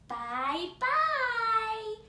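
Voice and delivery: high, loud sing-song farewell; baby goodbye. Acted. Baby bear waving goodbye, high sing-song. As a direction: sing a cheerful bye-bye.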